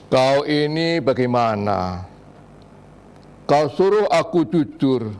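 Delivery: measured, deliberate poem reading with pauses; poetry recital. Acted. Reciting a protest poem to a TV audience, earnest recital. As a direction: recite each line like a complaint to the ruler.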